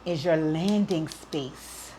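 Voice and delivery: slow, halting words, fighting tears; choked up, pushing through slowly; holding back tears. Real, not acted. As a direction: speak slowly as if about to cry. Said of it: "I'm not gonna cry on this".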